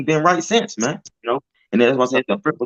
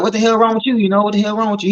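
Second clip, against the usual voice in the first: higher, incredulous repeated asking; shocked question; 7 semitones higher, faster than usual. Retold or imitated. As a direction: press him in disbelief, voice pitched up. Retold shocked question to cousin.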